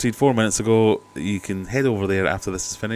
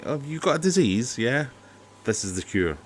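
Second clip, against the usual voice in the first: mock salesman pitch; 4 semitones higher than usual. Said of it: "that's a bit like saying".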